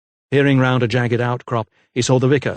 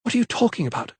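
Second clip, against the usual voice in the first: snapped; 10 semitones higher, faster than usual. A narrator's reading. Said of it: "snapped Lydia".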